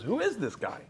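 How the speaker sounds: high amused dad voice; retelling dad's delighted question; dad laughing. Retold or imitated. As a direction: squeal it out through laughter.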